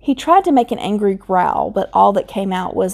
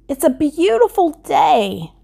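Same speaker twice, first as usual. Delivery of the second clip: cheerful; 8 semitones higher than usual. Acted. Scarecrow cheerful quote.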